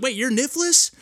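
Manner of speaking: high-pitched disbelieving question; acting out a startled realisation; retold surprise. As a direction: shoot the pitch up in mock astonishment. Retold surprise on learning developer's identity.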